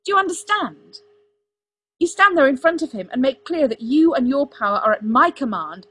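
loud, high, impassioned tirade; shouting. A narrator's reading. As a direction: shout it in mounting frustration. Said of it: "Arthur shouted at him".

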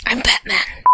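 a hint of Batman. Reader trying the deepest voice she can, mild Batman. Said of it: "I can't go any lower".

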